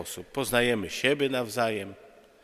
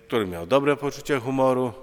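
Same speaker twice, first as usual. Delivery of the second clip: ordinary talk, nothing marked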